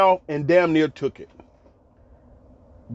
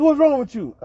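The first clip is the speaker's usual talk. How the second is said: retold coach's question; 10 semitones higher than usual. Coach questioning fallen player.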